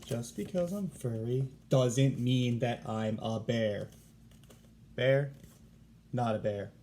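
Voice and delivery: a lightly voiced koala insisting he is not a bear; indignant koala. Warren protests being called bear.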